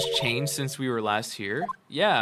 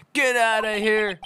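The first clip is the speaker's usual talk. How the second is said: "Get outta here" shouted higher, dragged out slowly; loud slow protest; 5 semitones higher, 5 dB louder than usual. Acted. Denying a crush to a teasing friend, loud slow shout. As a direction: blow up in mock outrage. Bashful denial, then shouted.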